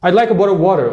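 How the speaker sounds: fast, connected Black American English accent. Shown as a demonstration. Teacher ordering water in a Black English accent. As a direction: slur it together in Black English. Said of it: "eles falam muito mais rápido, mais conectado".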